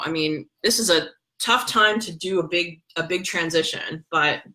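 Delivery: talking through a face mask on the lips. Real, not acted. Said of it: "sorry, I've got a mask on my lips".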